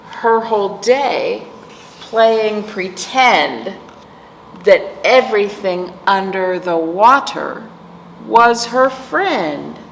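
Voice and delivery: sing-song rhythmic read-aloud; reading to children. Acted. Teacher reading a picture book to kids, sing-song. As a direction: lilt the rhyme for little listeners.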